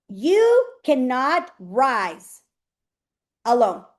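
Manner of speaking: You cannot rise alone drawn out very slowly, each word weighted; slow emphatic stress. Real, not acted. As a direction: let "alone" land after a long pause. Coach stressing a key line.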